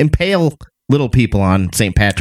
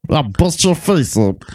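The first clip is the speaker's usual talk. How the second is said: angry leprechaun; 6 semitones higher than usual. Pretend. Voicing trapped leprechaun.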